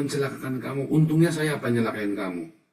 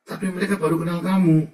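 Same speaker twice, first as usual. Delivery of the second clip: louder, higher emphatic warning; insistent repeat; 7 semitones higher, 6 dB louder than usual. Retold or imitated. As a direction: drive the point home a second time. (peringatan diulang lebih keras dan tinggi)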